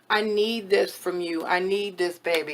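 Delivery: soft, calm request. Shown as a demonstration. To partner, showing the calm way to ask. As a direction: ask gently, no pressure. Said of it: "In a calm, ... kind of way".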